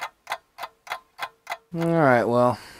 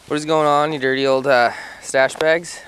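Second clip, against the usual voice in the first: mock scolding; 4 semitones higher, 6 dB louder than usual. Real, not acted. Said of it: "I don't know why I'm saying what is going on".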